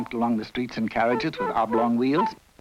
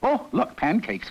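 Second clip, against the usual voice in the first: excited cry; 9 semitones higher than usual. Acted. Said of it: "cried the emperor".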